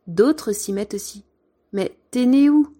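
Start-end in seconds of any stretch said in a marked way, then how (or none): 1.7-2.7 put-on high, louder child calling out; a child pressing the teacher, voice up high and loud; high, loud little classmate demanding an answer; pupil's voice.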